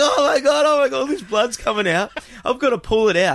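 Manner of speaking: high, loud frantic panic; panicking. Retold or imitated. Teen panicking at his mate's bleeding leg, high frantic. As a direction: rattle it off in alarm.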